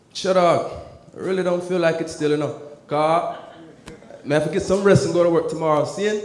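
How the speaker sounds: imitated Jamaican accent. Brushing off his friend while stuck in mode, put-on Jamaican accent. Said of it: "I was still in mode".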